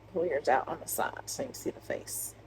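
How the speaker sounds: unvoiced off-camera whisper; whispered aside. Real, not acted. To her helper off camera, a quick whisper. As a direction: whisper the instruction so it stays off mic.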